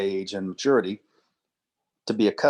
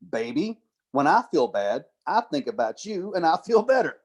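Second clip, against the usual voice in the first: higher, hammed-up lovey line; mock the cheesy boyfriend, pitched up; 5 semitones higher than usual. Lecturer mocking the boyfriend's cheesy line to the class, higher and hammed-up.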